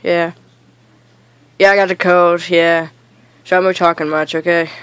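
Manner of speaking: low, subdued, under the weather; sick. Real, not acted. Gamer tells friend he has a cold, low and subdued. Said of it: "I'm sick today".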